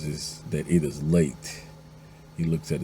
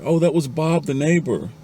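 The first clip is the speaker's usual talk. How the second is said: high, sing-out answer; acted offhand reply, pitched way up; calling back; 9 semitones higher, 3 dB louder than usual. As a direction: call back casually to another room. Wife calls back to husband.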